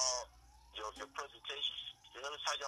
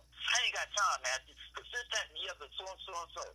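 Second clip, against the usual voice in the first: louder, higher, dismissive mom who won't listen; mom blowing up; 5 semitones higher, 3 dB louder than usual. Acted. Father acting out the mom refusing to talk, loud and dismissive. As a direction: brush him off like a fed-up mom.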